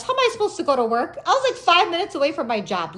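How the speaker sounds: high, loud lament; mock blubbering wail. Driver in tears about getting to work, mock wail. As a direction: wail it helplessly, hammed up. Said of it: "I'm like a blubbery mess".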